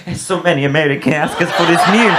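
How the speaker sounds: lightly voiced waiter, laugh in it; a put-on waiter's reply, slightly amused; Italian waiter. Waiter explaining the menu to a visitor, lightly imitated. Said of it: "And the waiter goes".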